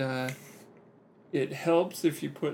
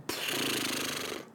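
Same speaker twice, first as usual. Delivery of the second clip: loose lip flutter; 6 dB quieter than usual. Shown as a demonstration. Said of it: "and just kinda go".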